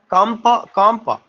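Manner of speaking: "कंपा" said slowly, set apart each time; syllable demo. Shown as a demonstration. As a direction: repeat "कंपा" slowly as a separate unit. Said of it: "pronounce करते हैं तो ठहराव". ("कंपा" धीरे-धीरे, अलग टुकड़े में)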